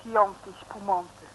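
very slow, drawn out with relish; savoured wine name. Acted. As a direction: roll the Italian wine name on the tongue.

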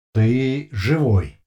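slow, loud emotionless machine voice; colorless metallic voice. A narrator's reading. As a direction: drone it out like a machine. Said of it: "бесцветный металлический голос".

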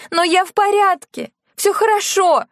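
high, urgent mock cry. A narrator's reading. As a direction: daughter insisting she is fine. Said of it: "закричала Лена".

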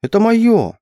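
high outraged squeal; squeaky protest. A narrator's reading. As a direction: squeal that it's yours. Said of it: "пропищала я".

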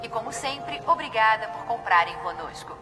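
PA announcement. Acted. Store closing announcement over speakers.

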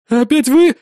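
high, loud startled cry; frightened cry. A narrator's reading. Cornered boy cries out at the officer. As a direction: recoil in fear. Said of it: "испуганно воскликнул он".

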